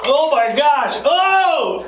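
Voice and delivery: high startled cry after a sour gulp; shocked exclamation. Real, not acted. Right after chugging lime juice.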